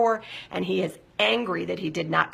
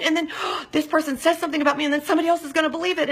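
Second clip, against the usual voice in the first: fast, higher-pitched panic with a gasp; panicked fear; 8 semitones higher, much faster than usual. Acted. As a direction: race through the worry, gasping.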